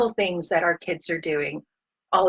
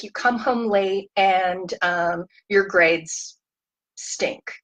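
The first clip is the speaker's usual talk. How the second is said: a hint of a stern, lecturing parent; mock angry parent. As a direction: lightly play the upset parent piling on complaints. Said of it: "Get angry".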